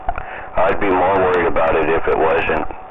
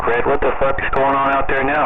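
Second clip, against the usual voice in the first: imitating the union rep; 8 semitones higher than usual. Union rep on phone, mimicked.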